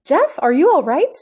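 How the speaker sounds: loud worried call down the quarry. A narrator's reading. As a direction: shout down to a missing friend. Calling down into the hollow.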